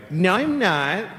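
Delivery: put-on rising, swooping protest of a small child; imitated little boy. Benji to the boy who says he'll die, childish protest. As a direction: deny it like an upset little kid. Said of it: "And he's like".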